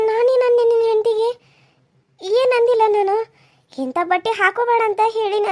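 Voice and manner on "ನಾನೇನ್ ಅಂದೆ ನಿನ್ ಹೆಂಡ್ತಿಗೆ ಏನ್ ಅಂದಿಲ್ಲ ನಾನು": raised, louder protest to her son; hurt protest. Acted. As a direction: defend yourself, stung and loud. Mother-in-law quarrels with son. (ಮಗನಿಗೆ ನೊಂದು ಜೋರಾಗಿ ಪ್ರತಿಭಟನೆ)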